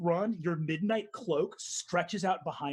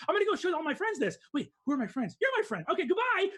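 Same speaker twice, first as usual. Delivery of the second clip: high, fast, squealing delight; high-pitched giddy Jothra; overjoyed racer; 8 semitones higher, much faster than usual. Acted. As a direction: squeal with joy over a gift. GM voices Jothra gushing over flower.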